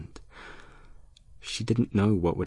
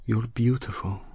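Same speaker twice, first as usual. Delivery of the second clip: tender whisper; 4 semitones higher than usual. Acted. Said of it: "she whispered tenderly".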